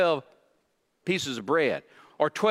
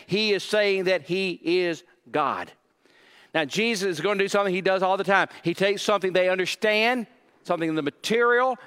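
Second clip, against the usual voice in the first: normal talking voice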